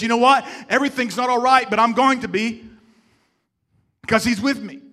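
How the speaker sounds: loud, confident declaration; bold assurance. Acted. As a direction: proclaim it like nothing can shake you. Voicing a believer's inner assurance.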